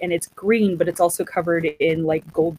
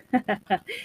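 knight's chuckle; 7 dB quieter than usual. Retold or imitated. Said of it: "he just kinda goes".

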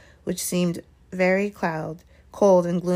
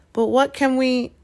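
higher, dismayed question cut off; gasped; 6 semitones higher, 4 dB louder than usual. A narrator's reading. Hermione reacts to Snape's plan, alarmed gasp. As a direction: break off in alarm. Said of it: "Hermione gasped".

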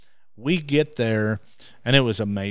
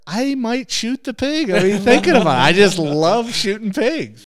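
louder, building excitement about pigs; excited; 9 semitones higher, 7 dB louder than usual. Real, not acted. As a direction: let the enthusiasm burst out. Excited confession about loving pigs.

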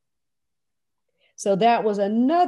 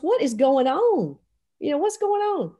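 retold bewilderment; 5 semitones higher than usual. Recruit asks, confused by departure.

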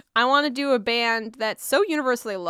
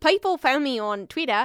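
put-on Kiwi accent; New Zealand accent. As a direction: exaggerate the New Zealand vowels. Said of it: "doing a New Zealand accent".

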